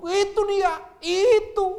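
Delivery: high, loud finger-pointing; pointing blame. Acted. People point at others.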